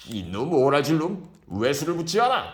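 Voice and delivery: put-on loud, high drunken scolding. A narrator's reading. Drunk Kim scolding the serving boy, loud. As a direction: tear into the boy. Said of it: "라고 야단을 쳤다".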